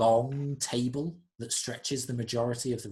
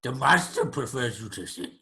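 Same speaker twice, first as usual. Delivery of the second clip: creature voice, firm insistence; insistent creature servant; 3 dB louder than usual. Acted. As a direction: press the guest as the creature servant. Creature insists player sit.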